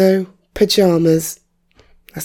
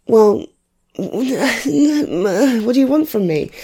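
slow, higher, laughing mock protest; laughing exasperation; 6 semitones higher, much slower than usual. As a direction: shrug it off with a laugh. Exasperated reply to relatives.

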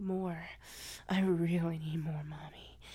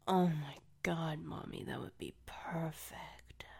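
whisper; 2 semitones lower, 3 dB quieter than usual. Acted. Whispered throughout.

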